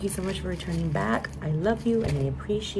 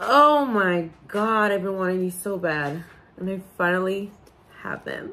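overjoyed, tearful, joyful crying; 3 dB louder than usual. Vlogger showing viewers something long wanted: crying with joy. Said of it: "I'm crying".

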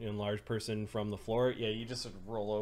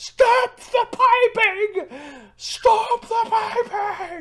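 very high, very loud, slow, shrill, drawn-out freak-out yell; 15 dB louder than usual. Voicing a character interrupted mid-performance: character freaking out, yelling. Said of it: "he's having a freak out about you interrupting".

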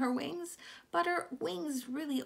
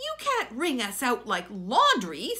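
indignantly offended, affronted; 6 dB louder than usual. Narrator reading a character answering another's suggestion, indignant. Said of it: "said Socks indignantly".

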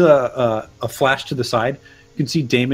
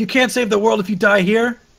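raised, high shout; 10 semitones higher than usual. Narrating a game scene, the speaker voices a character shouting at the players: shouting. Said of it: "He like shouts at you".

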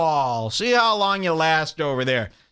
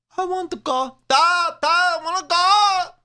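put-on very high little-kid baby talk; 11 semitones higher than usual. Asking why some kids talk like babies, imitating kids' baby talk. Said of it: "why do some kids have that baby?".

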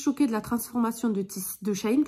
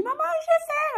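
put-on cute, tiny babyish voice, much higher. A mother quotes her child telling her at noon about trying the fast, cute little baby voice. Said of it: "avec sa petite voix de bébé tout mignon".

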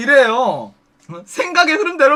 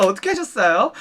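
plain

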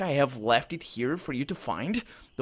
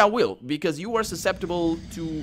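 plain

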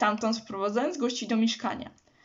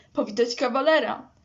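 growing bolder and louder; 4 dB louder than usual. The teacher's wife greets the boy Marcin directly, bolder and louder. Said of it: "Mówiła coraz śmielej i głośniej".

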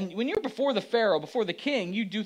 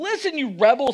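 high-pitched, loud, raised shout; 5 semitones higher, 4 dB louder than usual. Retelling how Moses shouted at the complaining people: imitating Moses shouting. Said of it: "he shouted".

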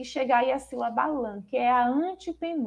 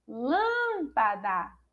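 calling out loudly, projected as if across a distance. Reading lesson: the word called as if to someone far, calling lâmpada out from afar. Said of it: "como se a gente estivesse chamando alguém que está longe".

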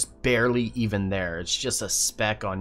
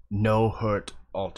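awkwardly grunted, awkward words. Narrating, the speaker voices a man answering the players' request to dig, awkward grunting speech. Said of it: "awkwardly kind of grunts".

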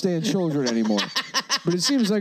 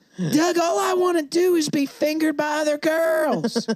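put-on high Southern girl accent; 9 semitones higher than usual. Retelling how Patty talked to Doug, imitating Patty's southern accent. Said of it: "she's like a southern lesbian".

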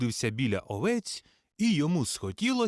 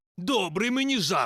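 cross, angry delivery; 4 semitones higher than usual. A shepherd answers the would-be joker, speaking angrily. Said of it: "гнівно промовив один пастух".

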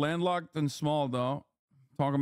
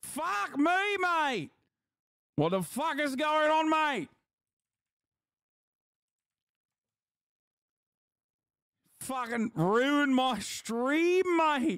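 very high, shrill, put-on Australian accent, ranting; 12 semitones higher than usual. Streamer rants about someone ruining the stream: Australian Bill Burr impression. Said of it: "Australian Bill Burr".

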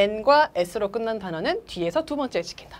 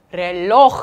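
final-syllable stress, 로 stressed in 렐로; 4 semitones lower, 9 dB louder than usual. Teaching the word meaning clock: stress on last syllable of 렐로. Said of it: "두 번째가 아니라 맨 마지막 음절에 찍혀서".

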